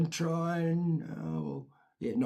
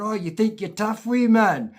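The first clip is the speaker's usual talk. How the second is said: taunting; 6 semitones higher, 6 dB louder than usual. Retold or imitated. Big boys taunting him.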